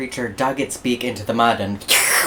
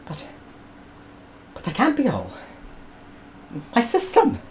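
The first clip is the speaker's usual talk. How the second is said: high, wailing lament; despairing George; 11 semitones higher than usual. Acted. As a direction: whimper over the ruined system.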